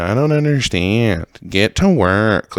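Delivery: slow, drawn-out parody of bossy people; mocking rich people. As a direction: stretch the words to mock people giving orders. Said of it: "you hear all these people talk like this".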